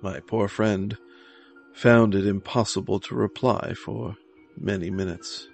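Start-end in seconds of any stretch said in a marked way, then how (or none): none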